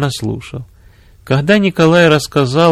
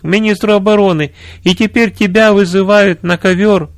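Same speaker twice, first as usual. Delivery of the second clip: высокий взволнованный голос жены генерала; отчитай мужа высоко, с напором; возмущённая жена; 7 semitones higher than usual. A narrator's reading. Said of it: "воскликнула его жена". (возмущённо, на высоких тонах)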